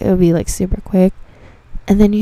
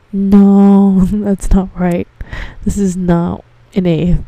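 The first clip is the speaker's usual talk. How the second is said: drawn-out, louder "No" in mock protest; insistent customer complaint; 3 dB louder, slower than usual. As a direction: imitate a customer refusing to accept it.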